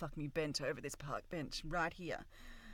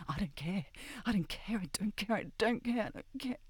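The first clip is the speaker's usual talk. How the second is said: building defiance; 5 semitones higher than usual. Acted. Repeated, rising toward climax.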